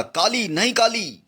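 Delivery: drawn-out cry of grief, high and slow; anguished cry. Acted. Daniel cries out as his loyal elephant Kali dies, slow and anguished. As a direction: call out to the dying friend in despair. Friend dying before them.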